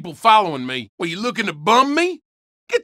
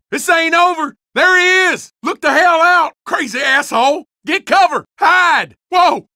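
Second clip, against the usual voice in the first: shouting; 3 semitones higher than usual. Acted. Chasing and taking cover in a fight.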